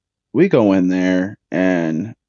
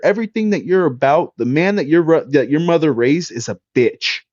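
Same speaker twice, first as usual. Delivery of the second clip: real angry rant; 6 semitones higher than usual. Real, not acted. Ranting at the player who insulted him.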